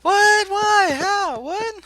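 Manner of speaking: high-pitched incredulous squeal; shocked disbelief. Real, not acted. Friend hears he stopped watching anime, shocked disbelief.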